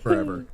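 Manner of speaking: forever sung out high and drawn; stretched forever. Real, not acted. S1 teasing about Mark Wahlberg, forever pitched high. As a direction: lift forever way up, playful. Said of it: "he will forever be Marky Mark to me".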